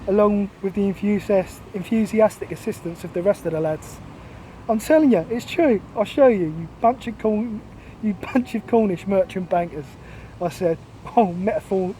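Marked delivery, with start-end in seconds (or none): 4.7-9.9 chest-out defiance. Acted. Londoner standing up to the teasing lads, chest-out defiance. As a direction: puff the chest out and insist, in mock bravado. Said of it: "metaphorically sticking my chest out".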